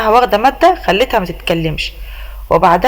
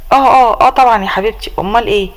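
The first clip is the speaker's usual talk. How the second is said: flustered. Acted. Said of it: "لقيته ارتبك كده".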